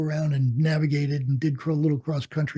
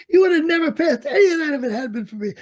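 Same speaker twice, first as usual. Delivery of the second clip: higher, teasing, through laughter; laughing boast; 10 semitones higher, 5 dB louder, faster than usual. Retold or imitated. Old instructor ribbing his former student, laughing. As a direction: crow about it, laughing.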